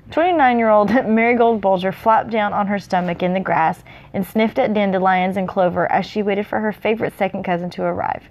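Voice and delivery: measured read-aloud narration; story narration. A narrator's reading.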